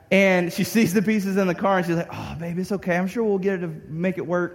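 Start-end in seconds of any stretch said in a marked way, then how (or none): 2.1-4.5 sweet reassurance. Retold or imitated. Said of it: "My wife's super sweet".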